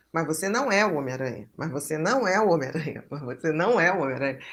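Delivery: quick, low, repeated objection; imitated literal child. Literal-minded child correcting the pretend game, imitated insistence. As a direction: object fast and low, same tune each time. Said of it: "ele tem um raciocínio concreto".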